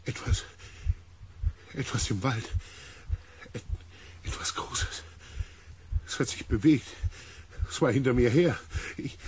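out of breath. Acted. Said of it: "keuchend und mit fliegendem Atem".

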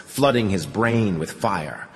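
plain reading voice

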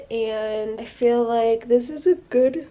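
talking through a yawn; mid-yawn, words stretched. Real, not acted. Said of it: "can I stop yawning?".

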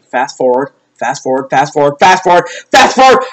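repeated demand climbing out of a low murmur; mounting impatience. Real, not acted. Fan urging the broadcast on, mounting impatience.

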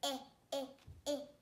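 "Eh" as the short "ih" of inchworm; short I sound. Shown as a demonstration.

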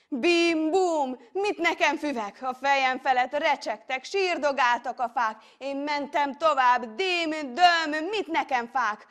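loud, high, booming sound-words and scornful questions; defiant bravado. A narrator's reading. Hero crashing through grass and trees, defiant. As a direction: storm onward, brushing everything aside.

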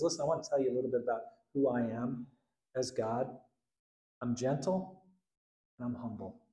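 soft, tender voice of Jesus; gentle. Retold or imitated. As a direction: speak quietly and kindly. Jesus voiced, gentle self-description.

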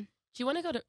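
put-on trying out an American woman's accent; hesitant go at an American accent; attempted American accent. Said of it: "what would an American woman say?".

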